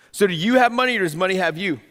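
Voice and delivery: forceful preaching. Real, not acted. Third forceful repeat.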